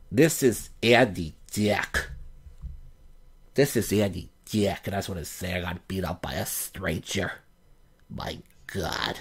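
a hint of a battered Andy Dick; Andy Dick impression. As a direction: drag it out and fade to a half-whisper. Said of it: "he sounds like a monster".

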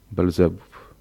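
a touch of pride in the name; proud. A narrator's reading. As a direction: say the old master's name with mild pride. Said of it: "odrzekł stwór z dumą". (z lekką dumą demon)

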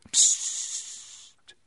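long, voiceless shushing; whispered hush. A narrator's reading. Milady silences jubilant Constanze, whispered hush. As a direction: hush her sharply under your breath. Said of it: "flüsterte Milady".

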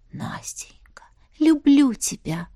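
нежный шёпот влюблённой; прошепчи признание тихо. A narrator's reading. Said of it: "шептала она". (шёпотом)

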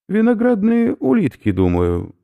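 an unruffled scholar in the dark; calm old professor. Acted. Professor calmly identifies the food, high professor voice. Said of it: "спокойный голос водяника".

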